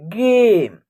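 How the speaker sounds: "गेम" with a long, held 'ay'; teacher's clear "गेम", A sounded as 'ay'. Shown as a demonstration. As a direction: stretch the vowel in "गेम" as a model. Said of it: "ए का उच्चारण ए हो रहा".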